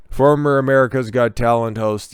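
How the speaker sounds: "Former" given a light extra push at the start; sarcastic emphasis on "Former"; stress on former. Shown as a demonstration. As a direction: lean on the word "Former". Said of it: "get that emphasis on the former".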